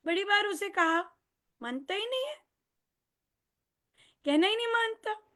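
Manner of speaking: high, loud exasperated parent scolding. Retold or imitated. Parent complaining that the child never obeys, exasperated. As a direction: throw up your hands at a child who won't listen.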